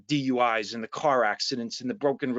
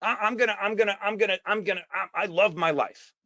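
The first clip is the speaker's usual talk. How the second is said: higher, eager, stumbling over his own excitement; pumped-up enthusiasm; 5 semitones higher than usual. Retold or imitated. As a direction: fire yourself up for the day. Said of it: "do you get up in the morning and say".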